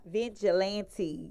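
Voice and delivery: "Vigilante" drawn out slowly, vij-uh-LAN-tee; name pronunciation. Shown as a demonstration. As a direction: say "Vigilante" slowly, stretching each syllable. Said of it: "how to pronounce your name".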